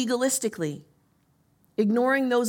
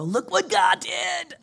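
excited exclaim; 7 semitones higher, slower than usual. Retold or imitated. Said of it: "you're gonna come in here and go".

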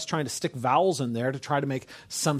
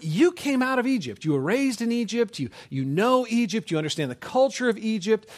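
God; 8 semitones higher than usual. Retold or imitated. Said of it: "It's God basically saying".

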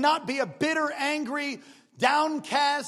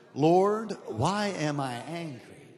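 loud sincere prayer; 6 semitones lower, much slower than usual. Shown as a demonstration. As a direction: Lord called out loud, then a slow lower why am I angry. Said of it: "One, two, three".

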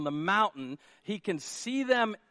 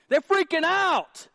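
high, loud and slow; emphatic outcry; 10 semitones higher, 8 dB louder, slower than usual. Acted. Pastor telling congregation of disciples' panic, emphatic outcry. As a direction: belt it out to dramatize panic.

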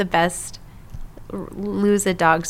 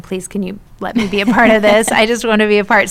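louder, eager retold plea; mock begging; 5 dB louder than usual. Asking app developers to let her join, mock begging. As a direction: play up the pleading a little. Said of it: "I was pretty much begging them".

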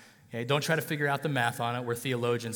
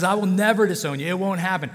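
loud, raised-pitch insistence as Peter; emphatic acted denial; 4 semitones higher, 6 dB louder than usual. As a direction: insist hard, acting out a stubborn vow. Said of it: "He was emphatic with it even".

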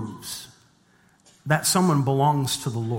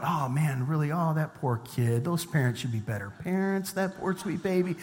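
soft, mock-sympathetic cooing; pitying onlooker; 7 dB quieter than usual. Couple pitying a stranger's child at the mall, softly sympathetic. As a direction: murmur pity for someone else's child.

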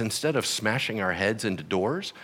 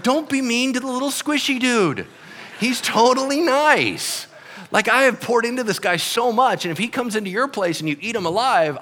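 protective plea, high; 10 semitones higher than usual. Acted. Paul protecting Timothy.

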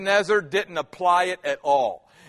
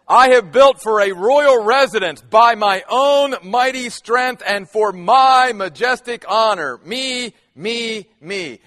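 proud king's boast; 2 semitones higher, 5 dB louder than usual. Retold or imitated. Preacher voicing the proud king.

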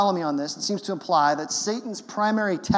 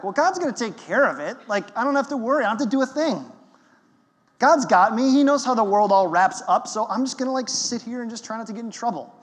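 higher, breezy voice of a careless Christian; complacent believer; 4 semitones higher, 3 dB louder, faster than usual. Retold or imitated. Preacher mimics a complacent believer, lightly mocking. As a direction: sound carefree and smug, shrugging it all off. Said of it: "It goes like this".

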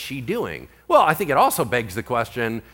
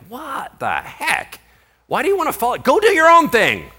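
high mock-annoyed outburst, building louder; acted exasperation; 12 semitones higher, 6 dB louder than usual. Imagined missionary to the woman trailing them, exasperated.

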